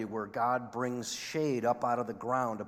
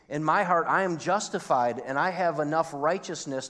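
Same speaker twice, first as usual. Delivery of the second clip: building impassioned confession; 3 semitones higher, 4 dB louder than usual. Acted. Preacher voices the reader's heart, building.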